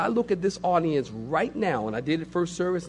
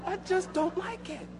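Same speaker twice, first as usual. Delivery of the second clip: laughing protest; 9 semitones higher, 6 dB quieter than usual. Acted. Laughing, high mock protest.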